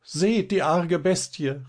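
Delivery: high-pitched, drawn-out cry of alarm; startled cry. A narrator's reading. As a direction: call out in fright, pitch leaping up. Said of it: "rief Liese erschrocken". (erschrockener, hoher Ausruf)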